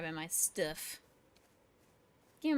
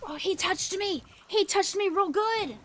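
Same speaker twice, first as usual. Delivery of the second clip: high, loud hammed-up indignation; mock outrage; 11 semitones higher, 8 dB louder than usual. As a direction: play the scandalized victim. Comic outrage at being hit.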